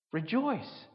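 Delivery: ordinary delivery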